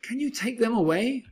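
exasperated, high-pitched storybook outcry; read-aloud yell, not full volume; narrated yell. A narrator's reading. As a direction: cry out in mild dismay, pitch jumping up. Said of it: "I yelled".

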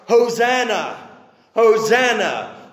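crowd shouting. Acted. Crowd acclaiming Jesus on the road, shouting. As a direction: call it out like a cheering crowd. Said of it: "everyone begins to sing and shout".

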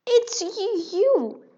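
high, loud mouse squeak of shock; surprised mouse squeak. Acted. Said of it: "squeaked in surprise".

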